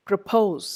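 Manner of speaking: "Propose" stressed on POSE; pro-POSE, short light start to "Propose"; second-syllable stress. Shown as a demonstration. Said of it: "second syllable".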